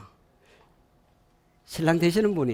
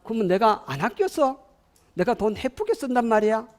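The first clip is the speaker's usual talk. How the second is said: high-pitched indignant comeback; offended listener; 6 semitones higher than usual. Acted. Listener taking money advice as blame, indignant. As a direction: act stung and throw the question back. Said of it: "듣는 사람은 어떻게 들을까요?".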